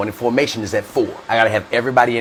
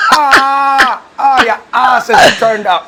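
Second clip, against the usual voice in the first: high, loud, stretched-out hooting; acted dying laughing; 13 semitones higher, 7 dB louder, much slower than usual. Buddy cracks up at his friend's backside, slow high howl. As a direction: wail it in hammed-up hysterics. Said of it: "Dying laughing".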